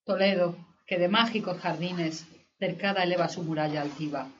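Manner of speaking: measured, solemn verse recital; poetry declamation. Acted.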